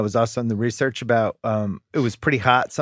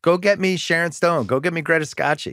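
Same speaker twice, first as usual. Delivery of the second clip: bossy producer; 4 semitones higher than usual. Acted. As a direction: bark orders like a producer. Acts studio boss demanding stars.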